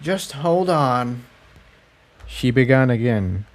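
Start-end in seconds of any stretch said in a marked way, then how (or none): 0.0-1.2 slow, softer calming plea; reassuring. Acted. Cerulean calming suspicious Tiptoe, slow and reassuring. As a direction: settle her down gently. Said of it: "Cerulean assured".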